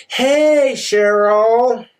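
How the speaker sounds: two-faced friendly hey; fake sweet greeting.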